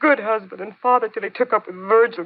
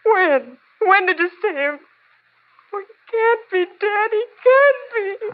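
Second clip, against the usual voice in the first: high, breaking disbelief; cling to denial, voice cracking; grief-crazed; 9 semitones higher than usual. Acted. Widow learns husband is dead.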